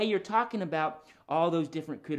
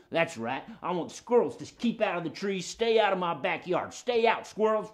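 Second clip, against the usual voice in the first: dog character getting worked up; indignant puppet dog. Pretend. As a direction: build toward warning off intruders. Voices Jim Dog puppet.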